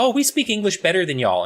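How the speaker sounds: high-pitched boast imitating Brits; mocking take on British bragging; mock British people. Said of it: "the British people are like".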